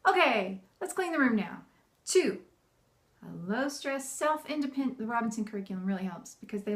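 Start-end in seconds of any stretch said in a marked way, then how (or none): 0.1-1.6 louder okay, higher upbeat invitation; upbeat rallying of the kids; fun. Shown as a demonstration. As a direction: make the chore sound fun. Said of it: "Make it fun".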